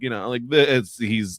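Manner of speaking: ordinary delivery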